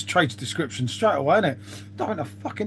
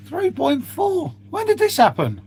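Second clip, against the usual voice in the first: shocked disbelief; 11 semitones higher than usual. Real, not acted. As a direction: stretch it out, stunned by the number. When did this happen?.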